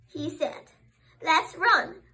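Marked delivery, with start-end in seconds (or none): 1.2-2.0 eager call, a bit louder; rally him cheerfully; crying out. Acted. Daddy cheering up little squirrel, eager call. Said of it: "cried Daddy squirrel".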